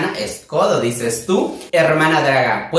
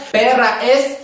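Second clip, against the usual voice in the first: varied tone; 8 semitones higher, much slower than usual. Shown as a demonstration. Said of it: "dependiendo también en qué tono lo diga".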